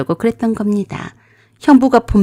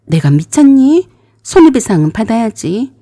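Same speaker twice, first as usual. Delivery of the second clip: a stern, raised "내가 미쳤니?"; stern retort; 4 dB louder than usual. Retold or imitated. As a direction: turn sharp and serious. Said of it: "정색을 하며".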